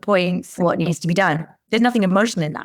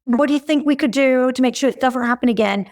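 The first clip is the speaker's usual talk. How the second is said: maternal; 6 semitones higher than usual. Retold or imitated. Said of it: "It's almost quite maternal".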